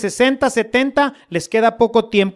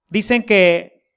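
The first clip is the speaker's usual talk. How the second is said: whispered aside; slower than usual. Acted. Aside sharing gossip.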